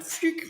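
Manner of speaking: quick high whoosh of a glitch; glitch sound effect. Retold or imitated. Reader showing how the screen just went, glitch noise. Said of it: "the screen just went".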